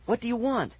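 high, alarmed question; choked out. A narrator's reading. Boy questioning the unseen voice, choked out. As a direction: pitch it up, a touch of panic. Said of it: "I managed to choke out".

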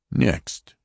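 high, stern voice of an alien officer; Martian officer. Acted. Martian officer warning the passengers, stern and high. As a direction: announce it like a cold interrogator. Lighter calls next.

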